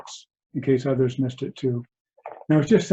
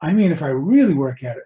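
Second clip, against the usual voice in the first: louder mock insistence, mildly taken aback; shocked student; 2 semitones higher, 5 dB louder than usual. Student questioning his Zen master, mildly shocked insistence. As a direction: press harder as the shocked student. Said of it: "A student is shocked by this".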